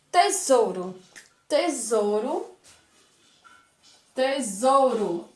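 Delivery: "tesouro" repeated slowly with a buzzing Z; teacher repeats "tesouro" for pupils to hear the Z. Shown as a demonstration. Teacher slowly repeating "tesouro" with a Z sound. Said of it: "Ele tem o som de quê?".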